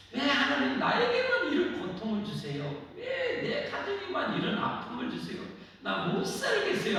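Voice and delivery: high mock lament with a laugh; complaining to God. A suffering believer complaining to God, mock tearful lament. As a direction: whine at God like a weary believer. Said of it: "하고 막, 눈물을 흘리고".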